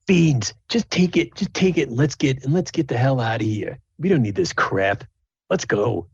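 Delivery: a half orc urging Beans to grab it and leave; impatient half orc. Acted. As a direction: hurry your buddy along, fed up. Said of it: "the one half orc says".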